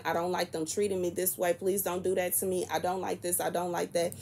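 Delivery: soft, calm pleading; quiet, sweet complaint. Retold or imitated. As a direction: say it sweetly and calmly, not to start a fight. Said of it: "trying to quietly, sweetly, calmly say my piece".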